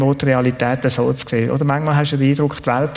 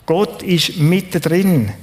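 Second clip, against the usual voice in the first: slow emphatic; 3 semitones higher, slower than usual. Shown as a demonstration. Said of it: "Wir könnten den Satz gut so übersetzen".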